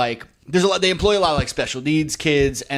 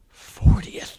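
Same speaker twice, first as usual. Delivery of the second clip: stunned whisper. Retold or imitated. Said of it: "I was like".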